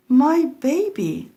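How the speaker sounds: a high, slow, drawn-out cry of alarm from a shocked mother. Acted. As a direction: gasp it out like a mother seeing her messy baby. Mother finds baby covered in mess.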